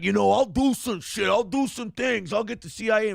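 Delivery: mock gangster voice, lightly done; hammed-up tough-guy gangster talk; fake gangster voice. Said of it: "fake gangster voice".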